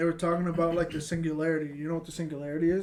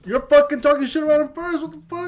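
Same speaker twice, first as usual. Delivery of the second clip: exasperated; 9 semitones higher, 7 dB louder than usual. Real, not acted. Heated argument among friends.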